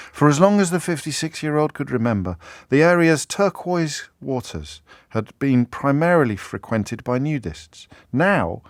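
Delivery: measured newspaper story read with relish; reading aloud. Acted. Presenter reading a beautiful piece of writing to listeners, measured read-aloud. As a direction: read it out like fine prose, drawing out phrases.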